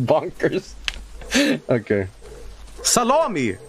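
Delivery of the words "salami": teasing call. Pretend. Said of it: "teasing the dog on stream".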